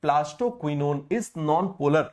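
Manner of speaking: very slow, word by word; slow and even, as if for notes; slow dictation. Shown as a demonstration. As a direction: dictate it slowly for copying. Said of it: "आप जानते हो कि plastoquinone क्या होता है".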